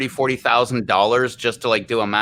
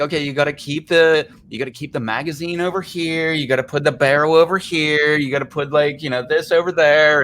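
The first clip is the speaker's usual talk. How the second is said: imitated wife; 5 semitones higher than usual. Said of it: "my wife's like".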